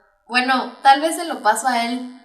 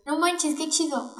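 higher-pitched mock astonishment; amazed exclamation; 5 semitones higher than usual. Shown as a demonstration. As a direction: demonstrate being pleasantly amazed. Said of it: "tú que te asombras".

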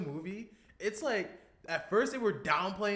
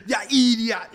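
put-on West Indian accent; 7 semitones higher, 16 dB louder, slower than usual. Parents scolding, West Indian voice.

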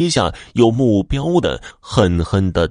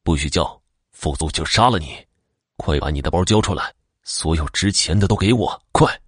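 cold low threat; 3 semitones lower than usual. Acted. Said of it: "压低声音冷酷地说道".

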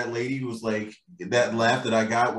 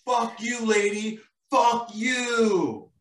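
mock curse; 10 semitones higher, much slower than usual. Elephant cursing the dead lady.

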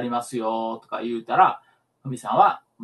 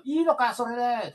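高めの声で問い詰めるセコンドの真似; 標準語で選手を揺さぶる; 煽るセコンド; 11 semitones higher than usual. Retold or imitated. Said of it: "違う違う違う". (選手を煽るセコンドを真似して、高い声で問い詰める)

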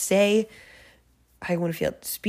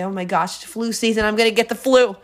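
hammed-up worrier, getting louder toward the end; mock alarm; 2 semitones higher, 5 dB louder than usual. Someone predicting they'll catch the flu, in mock alarm. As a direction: play someone fretting, building in volume.

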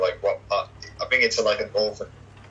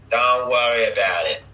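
put-on mafia-movie New York accent, louder; 5 dB louder than usual. Mobster in a mafia movie, New York accent. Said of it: "the New York accents in".

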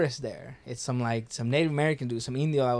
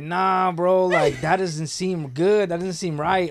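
louder, slow and worried; uneasy alarm; 4 semitones higher, 5 dB louder, slower than usual. Retold or imitated. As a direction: drag it out like something's wrong. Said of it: "And I'm like".

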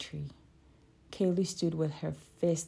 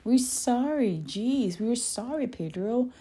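grudging apology; 7 semitones higher, 5 dB louder than usual. A narrator's reading. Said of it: "the trio apologized".

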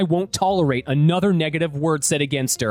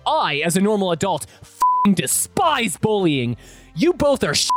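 losing his temper; 3 semitones higher than usual. Acted. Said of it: "I lost my shit".

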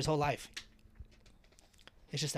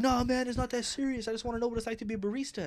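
higher, laughing placating voice; mock nervous customer; 8 semitones higher than usual. The scared customer calming him down, higher and laughing. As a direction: back off, laughing it off.

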